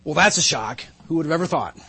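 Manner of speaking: dry mock surprise; sarcastic response. Parent responding when child does as warned, sarcastically. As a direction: feign being shocked, with mild sarcasm. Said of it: "you sarcastically respond".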